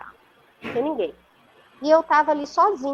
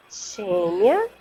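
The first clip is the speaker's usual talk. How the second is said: low, gently rising call of a name; soft creamy voice; 3 semitones lower than usual. Retold or imitated. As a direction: imitate a velvety voice calling her gently. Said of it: "assim, suave, cremosa". (imitando uma voz suave e cremosa)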